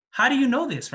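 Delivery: high-pitched, mildly acted amazement; astonished question. Father questioning the surprisingly wise little boy, acted astonishment.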